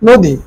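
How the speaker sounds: নদী as "no-di", with a rounded o; o-vowel pronunciation. Shown as a demonstration. Teacher explains the o-kar, saying নদী as "noo-di". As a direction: stretch the o in the first syllable of নদী. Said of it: "নয়ের মধ্যে ওকার দিয়ে হবে".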